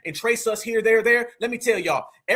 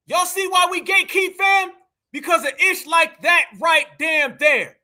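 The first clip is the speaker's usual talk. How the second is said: higher, emphatic rant; indignant outburst; 5 semitones higher than usual. Real, not acted. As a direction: press the point home in outrage. Indignant commentary after played clip.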